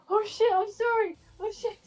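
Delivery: panicked apology. Acted. Player acts out rushing to apologise.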